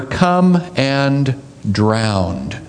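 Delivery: very slow, dragged-out "Come and drown"; slow mock-doom reading; ominous come and drown. Shown as a demonstration. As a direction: stretch out "Come and drown" like a grim sentence. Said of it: "Jesus did not say to Peter".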